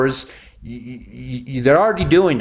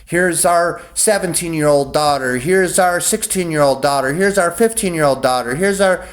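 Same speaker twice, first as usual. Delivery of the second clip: higher, eager sales-pitch voice listing daughters; mock Frey offering daughters; 5 semitones higher than usual. The Freys offering daughters to Lord Snow, mock eager pitch. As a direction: hawk each daughter like goods, climbing higher each time. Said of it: "the Freys was like".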